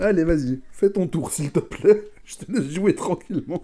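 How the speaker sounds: high, loud playful urging; laughing tease. Real, not acted. Teasing friend to play turn. (taquinerie rieuse)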